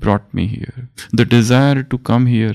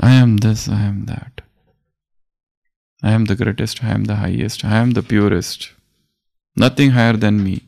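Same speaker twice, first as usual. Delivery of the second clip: humble declaration. Retold or imitated. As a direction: let the big words come gently and selflessly. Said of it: "there is a sense of humility".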